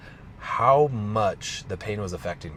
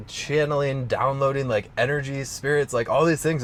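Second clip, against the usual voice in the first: excited; 5 semitones higher, 4 dB louder than usual. Real, not acted. Excited list of experiences.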